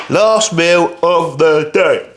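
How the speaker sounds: slow worn-out drawl; tired and slow. Real, not acted. Tired bodybuilder announcing his last meal, slow and worn out. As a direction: drag it out, exhausted. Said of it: "I am fucking shattered".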